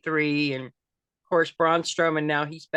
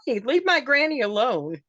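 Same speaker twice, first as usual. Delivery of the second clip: a retold holler, a bit higher and louder; mild mock holler; 6 semitones higher, 3 dB louder than usual. Wrestler Nikki defending granny from Cheerleader Melissa, mild mock holler. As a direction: call out in defence, lightly imitated. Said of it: "Nikki hollers".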